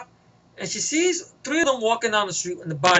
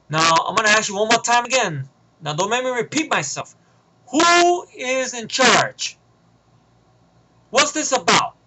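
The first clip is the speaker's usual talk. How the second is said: stern demand; 3 semitones higher than usual. Retold or imitated. Heroine interrogating the tied-up villain, stern. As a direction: demand an answer, no patience.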